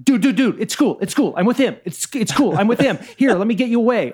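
high, fast frantic pleading; frantic dude voice. Acted. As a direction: talk them down in a panic. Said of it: "attempt to be like".

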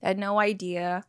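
natural conversational American English; American accent. Shown as a demonstration. Guest continuing her audition demo, American accent. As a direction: keep chatting as an American. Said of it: "conversationally American".

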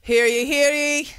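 slow lightly voiced town crier. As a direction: call it out like a court crier. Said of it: "you took the seriously".

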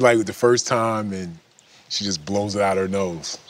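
usual speaking voice

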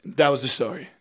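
low, soft, deflated sign-off; anticlimactic story ending. Retold or imitated. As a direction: imitate a storyteller quietly ending on nothing. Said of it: "And then she goes".

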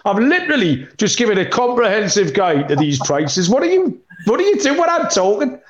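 playful exasperation, rising; mock exasperated. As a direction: tease him for not listening.

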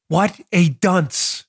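slow, drawn-out scorn; contemptuous. Real, not acted. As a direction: spit out the insult slowly. Mocking verdict.

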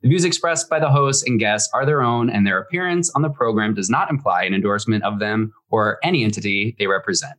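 brisk, even disclaimer read; fast legal disclaimer. Acted. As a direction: rattle off the legal small print.

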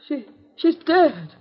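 whisper-close terror, then a rising desperate cry; a frightened woman close to crying; panicked fear. Acted. Wife panics over the dead body.

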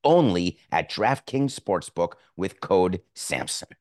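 emphatic sponsor read. Acted. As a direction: push the offer like a pitchman.

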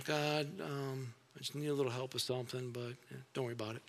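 mock timid prayer, quick and soft; half-hearted prayer. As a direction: rush it, asking without expecting anything. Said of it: "Some of us pray that way".

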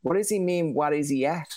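a hint of a baffled mainlander asking; puzzled outsider. Host voicing an Ontarian lost by Newfoundland talk, mildly puzzled. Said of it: "Eastern Ontario or Quebec would be like".

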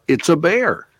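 a light imitation of a kid yelling. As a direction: call it out like an excited child. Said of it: "one kid yell out".

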